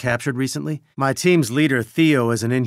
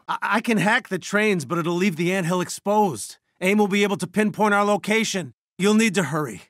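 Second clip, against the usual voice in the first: worried, raised pitch; urgent warning; 6 semitones higher than usual. Acted. Warning that the anthill will be exposed, urgent. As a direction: warn them with pressing urgency.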